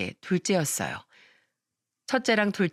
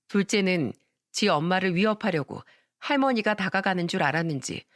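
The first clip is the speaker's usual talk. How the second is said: usual speaking voice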